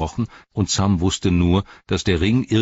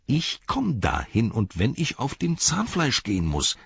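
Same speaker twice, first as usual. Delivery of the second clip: stubborn resolve; 5 semitones higher than usual. A narrator's reading. Sam answering his own doubts, stubbornly determined. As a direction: dig in and refuse to give up.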